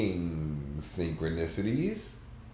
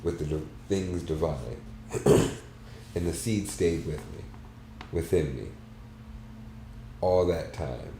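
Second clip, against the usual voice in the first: story narration. A narrator's reading. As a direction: read it like a reflective novel. Reads a novel aloud.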